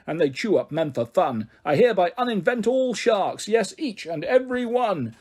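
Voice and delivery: lightly voiced indignant professor; stern professor voice. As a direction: condemn the sharks with pompous zeal. Professor condemns the sharks.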